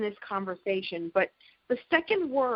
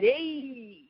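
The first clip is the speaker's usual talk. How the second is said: the Fonz; 4 semitones higher than usual. Retold or imitated. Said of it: "the Fonz had".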